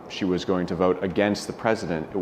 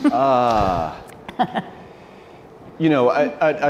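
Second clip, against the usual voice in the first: laughing start, a little louder; 7 semitones higher, 3 dB louder than usual. Real, not acted. Guest laughs as the host turns to him, laughing. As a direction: laugh your way into the answer. Laughs before answering the question.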